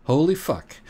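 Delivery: high, sudden exasperated cry; exasperated outburst. Real, not acted. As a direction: burst out in disbelief. Exasperated at the toy description.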